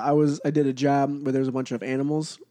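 stuffy nose from allergies; nasally voice. Real, not acted. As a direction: talk through blocked sinuses. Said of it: "That's why I sound really nasally right now".

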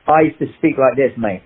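a touch of broad Cockney; lightly demonstrated Cockney chat; Cockney accent. Shown as a demonstration. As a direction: slip into matey Cockney. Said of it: "you speak with a Cockney accent".

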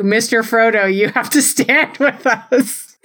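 a hint of a wide-eyed Sam pleading with Frodo; hobbity earnestness. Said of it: "hobbity earnestness of it".

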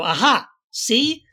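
slow, smug mock proof-texter; smug know-it-all. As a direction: drag it out like you've won. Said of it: "read any verse and go".

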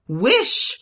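wife crying at her husband; cried out. A narrator's reading. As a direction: cry the command out. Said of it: "she cried again".

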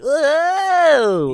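high, loud, long cry of alarm; drawn-out mock "whoa". Co-host imitating passengers careening onto a campground, mock alarmed cry. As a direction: wail it like a car careening away.

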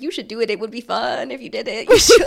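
pushy vendor pitch, ending loud; NPC street vendor. Retold or imitated. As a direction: sell it like a game merchant. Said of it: "like an N P C street vendor".

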